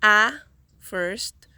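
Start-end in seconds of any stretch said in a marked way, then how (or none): 0.0-0.3 "A" alone as a loud, separate syllable. Shown as a demonstration. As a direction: sound out "A" on its own, firmly. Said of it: "This word has three syllables".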